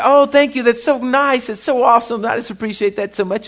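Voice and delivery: lightly hammed-up gratitude; gushing thanks. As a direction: act out effusive thanks, easing off toward the end. Acted thanks for a gift card.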